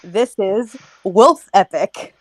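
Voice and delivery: slow, grand announcement of the title; spooky storyteller intro. Acted. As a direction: present it like a campfire tale. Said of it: "Submitted for the approval of the Midnight Society".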